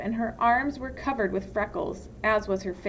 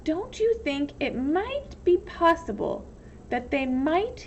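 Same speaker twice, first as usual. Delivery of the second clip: sweetly menacing question; lightly voiced warden; 5 semitones higher than usual. Warden questioning the counselor, lightly menacing.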